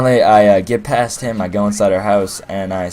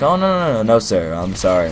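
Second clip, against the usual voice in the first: flustered denial. Retold or imitated. Caught smirking, flustered denial.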